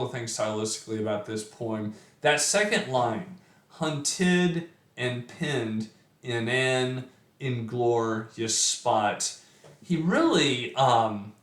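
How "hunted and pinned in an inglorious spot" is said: slow, leaning on "hunted" and "pinned"; sounds stressed. Shown as a demonstration. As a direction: draw out each in sound. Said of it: "just this repetition of sound".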